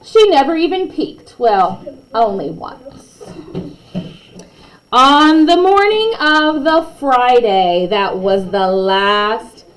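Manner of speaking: lively read-aloud storytelling; story narration. A narrator's reading. Narrator reading a class story to kids, lively. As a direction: read it like a bedtime picture book.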